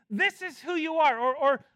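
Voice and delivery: emphatic Paul voice; emphatic paraphrase. Acted. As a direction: speak Paul's charge boldly. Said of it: "He's saying".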